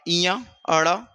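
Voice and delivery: इया and अड़ा drawn out slowly, each sound separate; slow sound demo. Shown as a demonstration. Teacher to students showing nasal sounds, slow demo. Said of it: "फिर अ".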